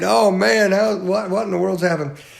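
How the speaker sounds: high mock sobbing with groaning dismay. Reading the story of Haman returning home mourning: acting out Haman groaning and crying. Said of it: "He's groaning, he's crying".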